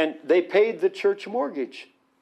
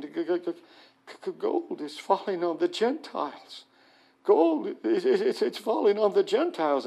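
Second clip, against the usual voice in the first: softer halting g- g- stammer, gold leaping higher; stuttering awe; 3 semitones higher, 3 dB quieter than usual. Retold or imitated. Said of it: "he's stuttering and he's saying".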